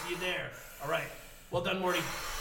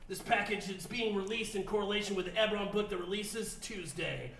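lightly voiced burpy mad scientist; a hint of a cranky grandpa genius; Rick voice.

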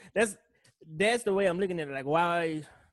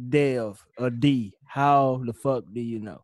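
slow quoted question; 5 semitones lower, slower than usual. Retold or imitated. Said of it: "Some of you are wondering".

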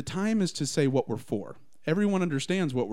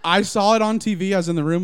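laughing; 6 semitones higher, 7 dB louder than usual. Real, not acted. Joking mock rumor, laughter.

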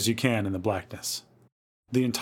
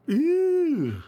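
high, long "eww" squeal; disgusted squeal; 4 dB louder than usual. A narrator's reading. Children handed the witch's arm, squealing in disgust. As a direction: squeal it high and let it drop.

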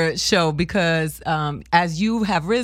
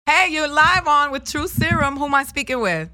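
higher, bright host greeting; radio host voice; 8 semitones higher than usual. Acted. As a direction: greet the caller like a DJ. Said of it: "radio host intro".

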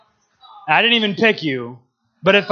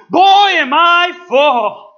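Calvin screams; 7 semitones higher than usual. Retold or imitated. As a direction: shout it out, playing the kid hamming it up. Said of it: "Calvin screams".

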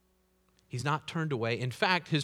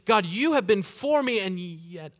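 loud pleading cry to God, higher; pleading prayer; 6 semitones higher, 7 dB louder than usual. Acted. David pleading loudly to God for help. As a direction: voice David begging God for rescue.

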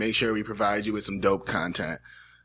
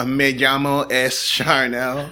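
slow mock Spanish; much slower than usual. Shown as a demonstration. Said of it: "doing sign language with it".

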